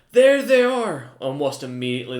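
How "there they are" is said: loud, high, slow alarm shout; guard shouting. Acted. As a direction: bellow it out to raise the alarm. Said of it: "as you hear".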